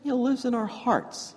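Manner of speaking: high, loud, laughing retelling; half-laughing at yourself; laughing through it. Real, not acted. Priest retelling his theology to preschoolers, laughing. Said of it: "I had to get theological".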